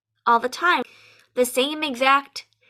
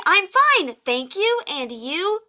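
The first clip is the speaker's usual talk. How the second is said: robotic student answer; 3 semitones higher, slower than usual. Retold or imitated. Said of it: "but to say".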